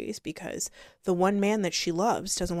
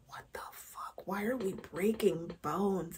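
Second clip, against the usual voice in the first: much softer whispered disbelief; shocked whisper; 9 dB quieter than usual. Retold or imitated. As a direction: hush it, horrified. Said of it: "I was like".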